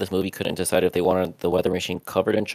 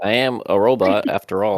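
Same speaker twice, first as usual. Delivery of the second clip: robot voice; 2 semitones higher, 3 dB louder than usual. Pretend. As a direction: play it like a robot. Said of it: "it sounds very robotic".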